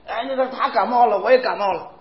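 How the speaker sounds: a light take on Auntie Li's voice; imitating Auntie Li. Auntie Li complains she caught the cold too, lightly mimicked. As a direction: lightly mimic a fretting neighbour. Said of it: "李姨说".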